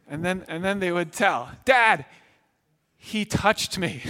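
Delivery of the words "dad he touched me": put-on a lightly whiny kid calling out to Dad; mild mock kid tattling from the back seat. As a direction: tattle on your brother, drawn out.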